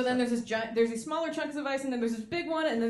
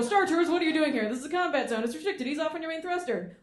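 higher, brisk radio order; X-Wing pilot command; 5 semitones higher than usual. Retold or imitated. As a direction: order them off firmly. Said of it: "and they go".

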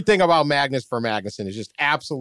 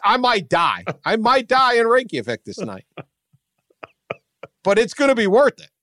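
mock dread; 6 semitones higher than usual. Retelling fear of strong shot.

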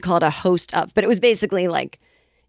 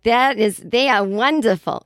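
imitated parents; 3 semitones higher, slower than usual. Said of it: "even if my parents hate someone".

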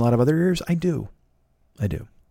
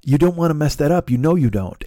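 encouraging friend; 4 semitones higher than usual. Retold or imitated. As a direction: gently talk him out of it, sweetly. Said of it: "She was saying".

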